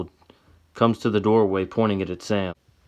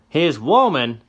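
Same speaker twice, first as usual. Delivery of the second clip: put-on high, louder old man; outraged old man; 7 semitones higher, 6 dB louder, slower than usual. Old man hears Tessa is Johnny's woman, high and outraged. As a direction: spit it out in disbelief.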